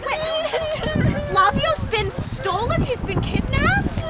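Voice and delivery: high, slow shocked gasp of disbelief. Acted. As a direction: react in stunned alarm. Shock at the kidnapping.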